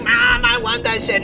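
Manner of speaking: put-on high, slow whining child voice; whiny kid. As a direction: beg like a little kid. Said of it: "It's like".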